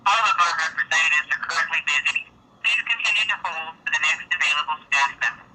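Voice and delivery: recorded automated phone greeting; phone menu voice. Acted. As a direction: read it like a call menu recording.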